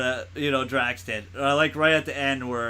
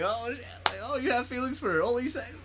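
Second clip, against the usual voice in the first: imitating Mantis; 10 semitones higher, 5 dB quieter than usual.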